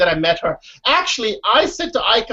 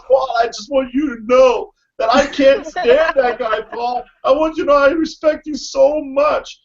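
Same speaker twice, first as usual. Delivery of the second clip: put-on Newfie accent; 4 semitones higher than usual. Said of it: "in his Newfie accent".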